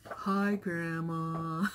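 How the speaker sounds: drawn-out, slow greeting; lightly voiced son. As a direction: stretch the hello slowly like a hesitant son. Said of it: "And he was like".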